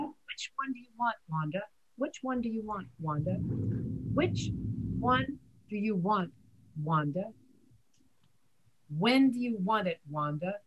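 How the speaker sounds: every W in Which one do you want, Wanda? stressed; W sound drill. Shown as a demonstration. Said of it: "Just work on nothing but the W sound".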